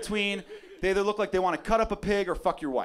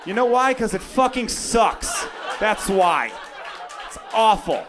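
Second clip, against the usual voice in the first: mock rant; 5 semitones higher, slower than usual. Real, not acted. Ranting about Indiana.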